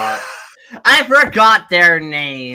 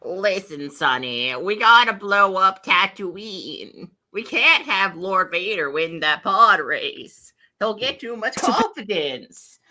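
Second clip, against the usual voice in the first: put-on old man voice; slower than usual. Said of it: "I want old man voice".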